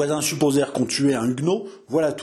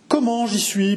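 stammering; 7 semitones higher, 3 dB louder than usual. A narrator's reading. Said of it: "bégaya Landry".

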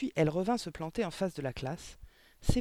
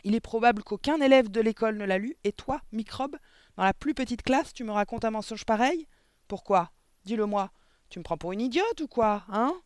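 higher, louder enraged tirade; furious headmistress; 7 semitones higher, 8 dB louder than usual. Acted. Headmistress raging at the smallest pupil, furious shout. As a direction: tear into the tiny pupil.

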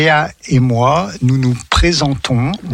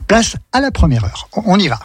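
excited announcer; 6 semitones higher than usual. Acted. Launching the first hour.

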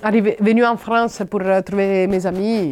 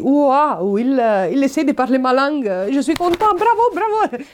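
excited mock cheer; delighted praise; 5 semitones higher than usual. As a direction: gush with joy that someone speaks your language. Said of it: "Alors tu dis".

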